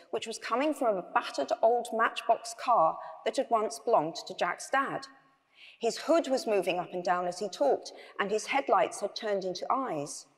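measured read-aloud storytelling; story narration. A narrator's reading. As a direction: read the bedtime tale to an audience.

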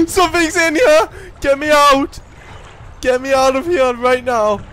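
high, loud, panicked plea; panicked yelling. Real, not acted. Player hears something breathing, screams in real panic. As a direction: yell to be let out, terrified.

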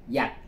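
dạch said as the Cantonese reading. Shown as a demonstration. Teacher showing students the Cantonese reading, dạch clearly sounded. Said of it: "Quảng Đông thì họ đọc là".

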